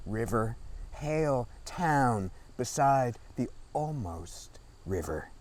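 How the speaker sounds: measured poetry recital, phrase by phrase; deliberate literary reading with falling line ends; poem reading. Acted. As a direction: read it as a poem, pausing between images. Reads own poem aloud.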